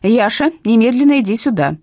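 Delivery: loud, commanding call; stern call. Acted. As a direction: order the dog out. Calling the dog sternly.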